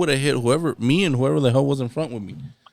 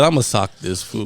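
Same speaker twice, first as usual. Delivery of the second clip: mock tough guy; 5 semitones lower than usual.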